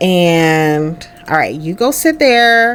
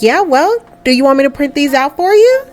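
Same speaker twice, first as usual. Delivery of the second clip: brisk, a little higher, helpful doctor; lightly voiced doctor; 6 semitones higher than usual. Doctor offers Jamie the printed scans, lightly voiced and brisk. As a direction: rattle off the offer, friendly.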